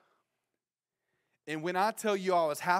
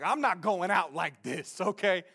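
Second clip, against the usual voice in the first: tough guy. Retold or imitated. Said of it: "the thug that was in me was like".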